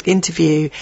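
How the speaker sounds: a light put-on Scottish lilt on the name; hint of Scottish burr, lightly done; mock Scottish accent. Host reading listener's tweet in a hinted Scottish accent. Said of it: "loving my Scottish accent".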